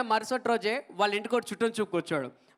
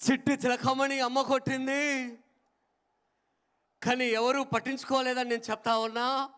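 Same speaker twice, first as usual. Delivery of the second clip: sing-song rhyme; 2 semitones higher than usual. Shown as a demonstration. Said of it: "ఈ విధంగా తీసుకొచ్చండి".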